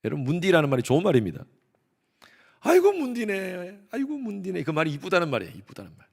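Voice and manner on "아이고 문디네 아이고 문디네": Gyeongsang dialect. Retold or imitated. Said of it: "경상도에서는 그렇게 얘기했어요".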